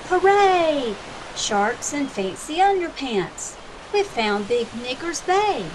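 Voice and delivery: loud, high cheer of a pirate captain, settling back; captain shouts. Acted. Captain cheers to his crew at the bay, loud then easing. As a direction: shout it with joy on spotting land. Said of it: "The captain shouts".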